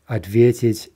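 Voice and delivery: ответить with stress on the middle "ве"; stem stress. Shown as a demonstration. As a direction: hit "ве" in ответить, leave the ending weak. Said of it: "that's clearly stem stressed".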